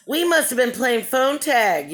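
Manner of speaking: put-on rough go at a Southern accent; attempted Southern accent. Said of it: "she has a real Southern accent".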